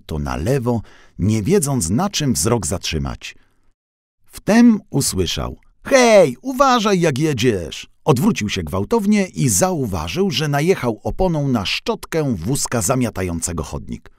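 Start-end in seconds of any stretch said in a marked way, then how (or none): 5.8-7.9 much higher, louder shout; warning shout. A narrator's reading. Sweeper cart yells at the van running over its brush, high and loud. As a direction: yell a sharp warning. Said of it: "tylko musiałem krzyknąć".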